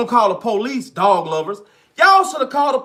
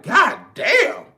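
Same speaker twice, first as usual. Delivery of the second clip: shocked reaction; 7 semitones higher than usual. Retold or imitated. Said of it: "I even had to be like".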